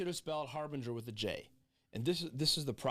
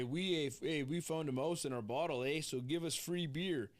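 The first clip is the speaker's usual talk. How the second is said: put-on Canadian accent; 2 semitones higher than usual. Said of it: "the speaker doing the Canadian accent".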